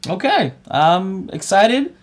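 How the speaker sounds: slow, half-hearted show of excitement; unenthusiastic. Real, not acted. Co-host claims to be excited for the show, unenthusiastic. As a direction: claim excitement without much conviction. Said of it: "I don't see your enthusiasm".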